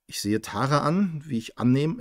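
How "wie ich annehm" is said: misread slip. Real, not acted. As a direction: cut off mid-word. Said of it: "äh, ich sehe Tara".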